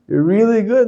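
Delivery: high, lilting rise to good; mock upswing. Teacher repeating the up before the crash, high rising exaggeration. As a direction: lift it right up for the high point. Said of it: "up and down enough".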